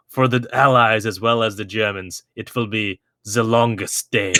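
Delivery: light mock German accent, slightly slowed; a hint of a German officer's accent; understated German-accented movie line. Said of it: "There, there's my German accent".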